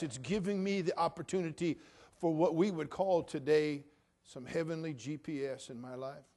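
ordinary delivery

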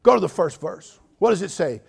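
loud firm mentor's voice; old preacher instructing. Retold or imitated. Old preacher directs the young preacher, firmly. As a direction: tell the boy firmly to open his Bible. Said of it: "And he said".

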